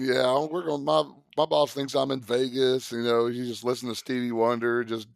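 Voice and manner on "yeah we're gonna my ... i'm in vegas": higher, easygoing limo driver quote; a hint of a chilled-out driver; carefree chauffeur voice.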